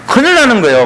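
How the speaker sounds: ordinary delivery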